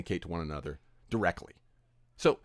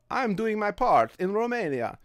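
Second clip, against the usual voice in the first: slow, higher mock-earnest fan; mock viewer voice; 9 semitones higher than usual. Mocking a PewDiePie viewer's earnest pride, slow higher mock voice. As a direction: parody a proud fan, drawn out.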